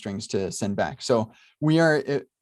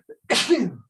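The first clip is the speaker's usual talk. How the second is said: sneezing; 9 semitones higher, 3 dB louder than usual. Real, not acted. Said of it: "Sorry, I'm gonna sneeze".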